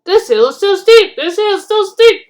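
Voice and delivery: high, loud chugging chant; rumbling coaches. A narrator's reading. Coaches complaining as they climb the steep hill. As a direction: strain like carriages on a climb. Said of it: "rumbled the coaches".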